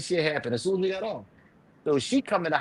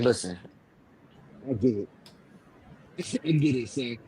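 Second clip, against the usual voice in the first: calming down; 3 semitones lower, 6 dB quieter than usual. Retold or imitated. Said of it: "trying to calm the situation down".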